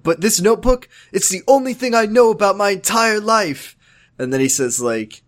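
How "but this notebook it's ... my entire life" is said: high-pitched retold teen plea; mock anguish, pitched up; imitated upset. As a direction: play a tearful protest, half in earnest. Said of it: "like, crying and".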